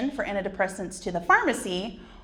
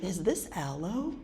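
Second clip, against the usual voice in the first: mock amazement; 11 semitones higher than usual. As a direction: marvel at the tissue like a treasure. Marvelling at fancy tissue.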